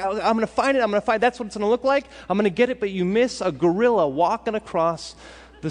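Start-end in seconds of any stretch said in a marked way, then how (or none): 0.0-2.8 fast, keyed-up self-talk; eager determination. Retold or imitated. Focused test-taker hyping himself up, quick and eager. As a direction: rush it like you're locked on. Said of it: "you're like".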